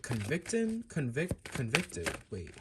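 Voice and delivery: soft, puzzled mumbling under her breath; muttering to herself. Real, not acted. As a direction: think aloud quietly, half to yourself. Puzzling over card meaning to herself.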